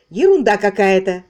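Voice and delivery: loud irritated dismissal. Acted. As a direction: brush it off, annoyed. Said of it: "раздражённо промолвила Мейбл".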